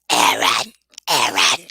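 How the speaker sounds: very low guttural demon growl of the name; deep demonic croak; possessed Reagan. Pretend. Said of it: "That's my Reagan impersonation".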